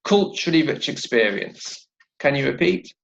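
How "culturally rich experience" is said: "culturally rich experience" joined into one phrase; "culturally rich experience" modelled as one flow, falling at the end; linked phrase. Shown as a demonstration. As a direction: run "rich" into "experience", stressing the start of "culturally". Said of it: "And now together".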